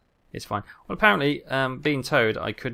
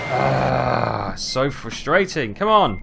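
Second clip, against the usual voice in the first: louder, drawn-out frustrated groan; exasperated groan; 5 dB louder, much slower than usual. Real, not acted. Driver groaning at his stuck truck, exasperated.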